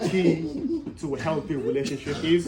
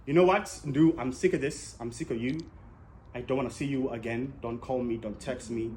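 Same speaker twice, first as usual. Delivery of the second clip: put-on girlfriend breaking up; 6 semitones lower, 5 dB quieter than usual. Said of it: "she goes".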